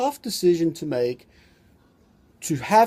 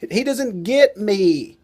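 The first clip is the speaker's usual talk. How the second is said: wife complaining; 8 semitones higher than usual. Retold or imitated. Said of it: "And the wives go".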